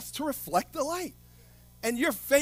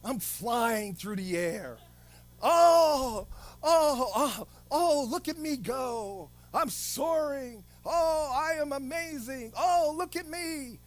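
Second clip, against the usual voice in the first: softly playing someone lost in pretend; dreamy, quieter mock fantasy; a gentle parody of someone imagining things; mock dreamy make-believe; 4 dB quieter than usual. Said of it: "You could say".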